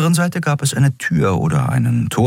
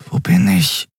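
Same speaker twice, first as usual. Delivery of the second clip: husky, half-voiced growl "Wo bin ich?". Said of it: "knurrte sie".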